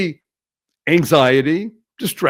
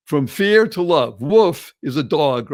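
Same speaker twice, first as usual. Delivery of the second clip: ordinary delivery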